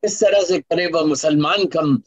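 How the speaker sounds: measured, rhythmic poetry recital; stately nazm recitation. Acted. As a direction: declaim each line to the audience. Resumes nazm after anecdote.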